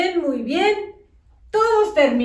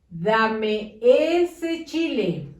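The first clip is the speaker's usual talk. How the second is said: words blurred into one; squashed, no gaps; run together; much slower than usual. Shown as a demonstration. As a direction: read it all lumped together. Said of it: "¿Está bien escrito todo junto?".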